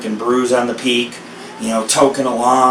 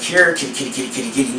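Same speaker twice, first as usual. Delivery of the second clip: coaxing kitty call, trailing softer; coaxing a cat; 3 dB quieter, faster than usual. Retold or imitated. Coaxing the jungle panther so it won't eat you, soft call. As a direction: lure the panther in gently. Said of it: "You're like".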